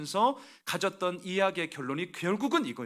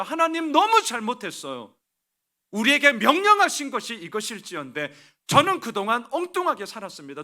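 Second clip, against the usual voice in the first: a pleading, higher, louder cry of repentance; tearful confession; 6 semitones higher, 6 dB louder than usual. Acted. Preacher voicing a weeping people confessing to God, pleading. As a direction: beg God's forgiveness, voice rising.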